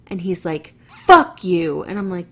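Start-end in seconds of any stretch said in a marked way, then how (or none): 0.9-1.8 loud, curt curse; retold angry curse. Driver cursing at the woman as she leaves, loud. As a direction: bark it at her. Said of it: "I just got yelled at".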